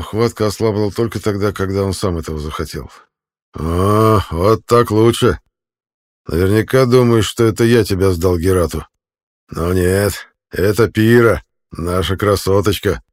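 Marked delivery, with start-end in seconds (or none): 3.5-13.0 loud, slow, mocking brute; gloating jailer. A narrator's reading. Jailer taunts the choked prisoner, loud mocking gloat. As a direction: savour every word of the betrayal.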